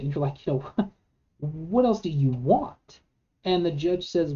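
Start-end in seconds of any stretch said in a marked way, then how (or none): 0.5-3.0 mild laughing scoff; a light scoffing laugh through the question; half-laughing, incredulous. Retold or imitated. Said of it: "you kinda scoff a little bit".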